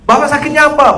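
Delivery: imitated preacher demanding an answer; mock stern demand. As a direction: bark out the question. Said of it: "Baru ditanya sakit apa".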